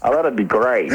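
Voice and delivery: Brit's put-on American accent; American accent impression. British DJ agreeing to pass a message, American accent. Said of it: "a British guy doing an American accent".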